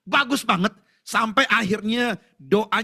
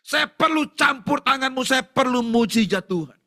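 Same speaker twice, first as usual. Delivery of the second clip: earnest plea; 4 semitones higher, slower than usual. Acted. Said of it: "tapi sungguh-sungguh".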